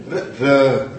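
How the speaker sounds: r said as a bare syllabic r, no vowel; pandits' pure syllabic r. Shown as a demonstration. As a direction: say r with no u or i after it. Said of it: "It is neither ru nor ri".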